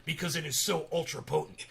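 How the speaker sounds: impersonating a ranting radio host, lightly voiced; Alex Jones. Host mimics a radio ranter selling supplements, lightly voiced impersonation. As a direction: do a light take on a conspiracy host's pitch. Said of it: "that was my Alex Jones impersonation".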